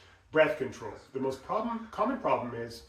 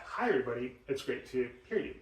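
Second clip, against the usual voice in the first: breathy demo. Shown as a demonstration.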